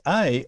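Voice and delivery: "A" as the vowel in veil; epsilon iota sound. Shown as a demonstration. Teacher showing Greek epsilon iota, sound demonstration. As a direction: say "A" with the veil diphthong. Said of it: "Epsilon iota is".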